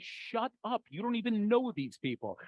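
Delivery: hushed mock scolding; scolding wife. Wife pulls husband back at a wedding, hushed imitated scolding. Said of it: "my wife is pulling me".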